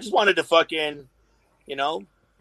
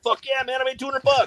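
much higher, hammed-up joy over small money; mock thrilled; 11 semitones higher, faster than usual. Seller cheers at swap meet over two hundred bucks, much higher. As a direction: cheer like it's a jackpot.

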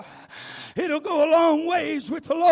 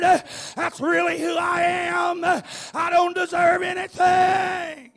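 loud shouted revival preaching, rhythmic and urgent; preaching at full force; 2 semitones higher, 3 dB louder than usual. Acted. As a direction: drive it home like a revival preacher calling sinners to the altar. Revival sermon climax.

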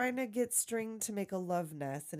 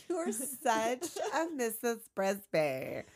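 teasing drawn-out; 3 semitones higher, slower than usual. Real, not acted. Teases friend with slow drawn-out verdict.

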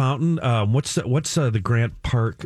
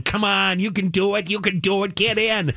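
higher, eager coaxing voice; urging, excited; 8 semitones higher than usual. Retold or imitated. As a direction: coax her on eagerly. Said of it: "he's going".

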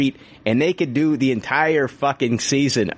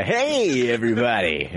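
radio host voice. Retold or imitated. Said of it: "morning radio zoo voice".

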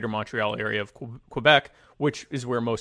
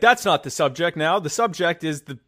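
mock politician; 2 semitones higher, 3 dB louder than usual. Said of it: "he's like".

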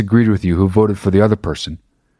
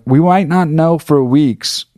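mocking doubters; 7 semitones higher, slower than usual. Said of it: "everyone this year is like".

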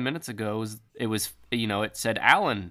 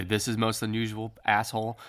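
mock the judge's words; scornful, mocking echo; sarcastic echo.

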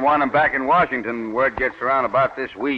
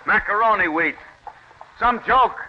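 a bitter, sarcastic jab, the pitch jumping higher on joke; bitter sarcasm; 7 semitones higher than usual. Acted. Farmer to his neighbours about the rejected wheat, bitterly sarcastic. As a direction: spit out the word joke in disgust.

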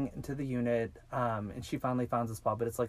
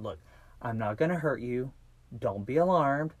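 higher, louder reassuring kidnapper; retold reassurance; 4 semitones higher, 3 dB louder than usual. Kidnapper telling a captive not to be afraid, mock reassurance. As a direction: lift the voice to talk a scared victim down.

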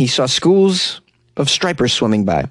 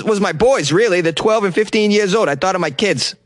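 put-on higher Boston accent, quoting the diver; 5 semitones higher than usual. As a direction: read it in a thick Boston accent. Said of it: "break out my Boston accent".

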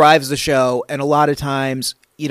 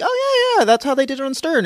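pitched-up, eager self-quote; eager recognition; 11 semitones higher than usual. Retold or imitated. Writer recalling chatting to the network about Stern, eagerly. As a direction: say it high and quick, as if recognizing the idea.

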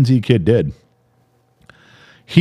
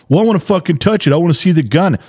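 put-on bratty kid; 6 semitones higher, faster than usual. Retold obnoxious kid.

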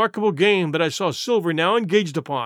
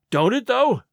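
higher, glad surprise; sort of joy; 5 semitones higher than usual. Acted. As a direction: brighten at the news. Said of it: "cried Dick with a sort of joy".

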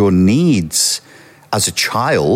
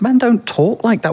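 much higher, amused repeat of the line; high mocking echo. Real, not acted. Friend echoing the host's line in high disbelief. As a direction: echo it back high and incredulous. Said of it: "Oh my God".

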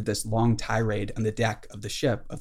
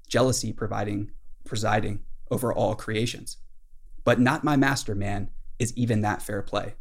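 measured, lightly declaimed captain's tirade; dramatic literary reading. Acted. Ahab answers Starbuck on deck, lightly declaimed tirade. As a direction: read it out with mild theatrical weight.

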